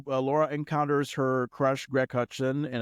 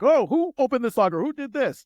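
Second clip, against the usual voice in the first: high, loud mock teacher calling out; mock coach demanding; 11 semitones higher, 5 dB louder than usual. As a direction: ham up an angry teacher's demand. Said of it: "a coach or teacher came up and be like".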